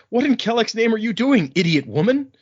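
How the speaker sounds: hammed-up outraged shout from the top; mock angry yell. The guard at the top shouting at the woman sliding down, mock angry yell.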